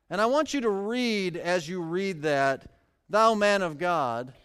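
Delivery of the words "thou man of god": a dry, mocking "Thou man of God"; hint of sarcasm. Shown as a demonstration. Preacher showing the church the captain's mocking tone, lightly sarcastic. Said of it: "with just a hint of sarcasm".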